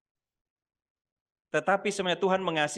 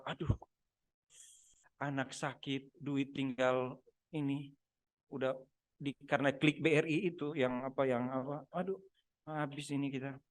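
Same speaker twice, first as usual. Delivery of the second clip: mock lament; 3 semitones lower, 8 dB quieter than usual. Keluhan saat ada masalah.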